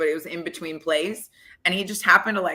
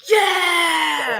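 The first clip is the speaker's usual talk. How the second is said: high, loud whoop of approval; team cheer; 11 semitones higher, 6 dB louder than usual. Retold or imitated. Teammates cheering her comeback, loud whoop. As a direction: cheer it like the whole locker room.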